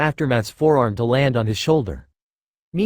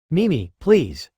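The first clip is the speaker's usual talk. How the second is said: gentle; 3 semitones higher, slower than usual. Acted. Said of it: "said softly, his tone gentle and worried".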